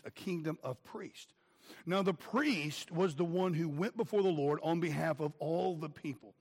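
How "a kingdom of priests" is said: "kingdom" repeated softer and slowly; soft echo. Shown as a demonstration. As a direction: let the phrase echo back quietly. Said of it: "and ye shall be unto me a kingdom of priests".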